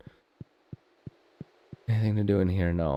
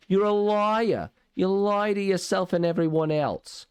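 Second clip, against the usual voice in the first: mock accusation; 11 semitones higher, slower than usual.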